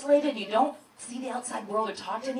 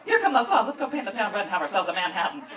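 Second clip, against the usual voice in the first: femme fatale; 5 semitones lower, faster than usual. Retold or imitated. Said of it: "the G P S sounds like a femme fatale".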